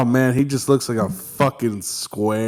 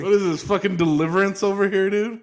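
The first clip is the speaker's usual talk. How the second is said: mock Southern accent; 8 semitones higher, faster than usual. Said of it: "how Southerners sound to the rest".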